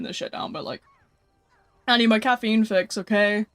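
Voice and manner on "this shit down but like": talking between gulps of drink; gulping a drink. Real, not acted. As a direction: speak while gulping a drink. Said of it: "you can probably hear me gulping".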